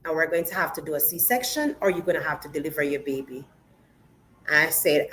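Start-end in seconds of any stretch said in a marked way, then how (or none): 0.0-3.5 straight face. Retold or imitated. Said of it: "she said it with a straight face".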